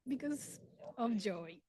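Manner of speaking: a touch of crying through a laugh; emotional, laughing while holding back tears; tearful joy. Real, not acted. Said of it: "I'm gonna keep crying".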